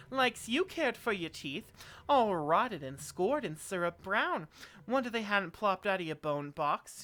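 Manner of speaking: loud, slow, drawn-out scolding in character; indignant seamstress. A narrator's reading. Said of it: "puffs up indignantly".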